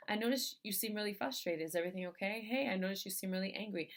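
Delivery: softly concerned, mildly gentle question; understated, caring enquiry; compassionate check-in. Shown as a demonstration. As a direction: ask with quiet curiosity and care. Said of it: "pose that question from a place of compassion".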